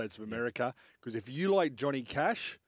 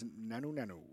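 quoting a singer; 10 dB quieter than usual. Retold or imitated. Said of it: "he says".

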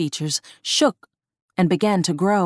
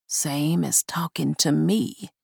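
gravelly doll voice; 2 semitones lower, 4 dB quieter than usual. Acted. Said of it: "The gravelly voice".

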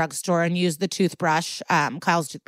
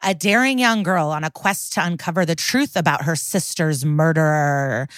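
dramatic mystery-game promo; ad read. Acted. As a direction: sell the mystery, stretching the last word. Podcast ad read.

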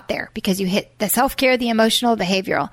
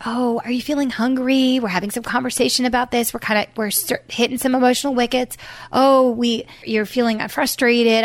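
lightly voiced soothing mom, kind and unhurried; gentle patient voice. Mom soothes fussing child in grocery store, gently patient. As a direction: coax a fussy child gently, a touch of sing-song. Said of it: "You're using that kind, gentle, patient voice".

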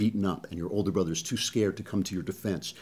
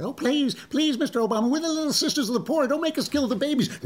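much higher, pleading falsetto nuns. Pretend. Nuns beg Obama in a mock falsetto plea. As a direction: beg like a frightened little nun, very high. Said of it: "That's who we're up against".

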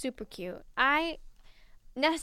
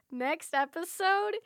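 drawn-out teaser; 3 semitones higher, slower than usual. Real, not acted. Teasing next episode dramatically.

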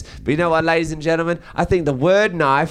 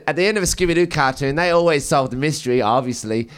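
usual speaking voice

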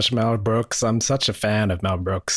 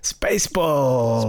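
slow, whispered title reveal; dramatic whisper; much slower than usual. Pretend. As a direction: breathe the title out slowly.

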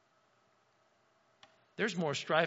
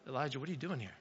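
softer, lower "Elijah, what are you doing here?" as a probing call; gentle searching God; 5 semitones lower, 8 dB quieter, much faster than usual. Shown as a demonstration. Preacher voicing God's real question to Elijah, softly probing. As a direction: lean in and ask it softly, meaning it. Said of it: "God's like".

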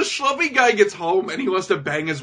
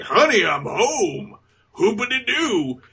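mock chipper sitcom dad; 4 semitones higher, slower than usual. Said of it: "when hubby opens the door, like".

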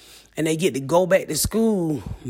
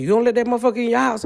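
mock shocked audience; 5 semitones higher, much faster than usual. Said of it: "I know what you're thinking".

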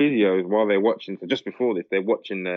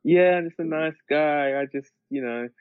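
mock PR spinner; 8 semitones higher than usual. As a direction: play the innocent spin, pitched up. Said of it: "P R spinner, isn't it?".

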